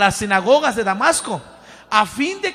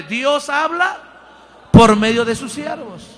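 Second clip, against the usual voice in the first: the repeat pushed out loud, with a punch on por; a loud preacher's call-and-response line; louder; 5 dB louder than usual. Shown as a demonstration. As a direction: proclaim it loud to the congregation. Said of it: "más fuerte".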